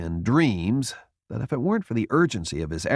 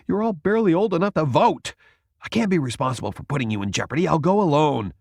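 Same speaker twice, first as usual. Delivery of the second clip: worried refusal; 6 semitones higher, faster than usual. A narrator's reading.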